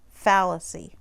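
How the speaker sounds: FALLACY with the weight on FAL; stress on first syllable. Shown as a demonstration. Teacher showing the accent mark on fallacy, first syllable stressed. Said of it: "you emphasize the first syllable".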